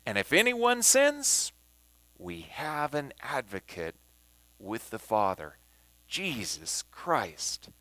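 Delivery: measured reading, phrases set apart by pauses; emphatic scripture reading. Shown as a demonstration. Teacher rereads the passage in New King James, emphatic scripture reading. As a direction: read the verse deliberately, settling down at its close. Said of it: "I'm going to emphasize words".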